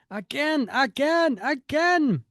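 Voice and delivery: high, loud repeated command; hammed-up battle order, each word stretched; villainous shout. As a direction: call out the attack like a cartoon villain. Reads villains' shouted comic dialogue.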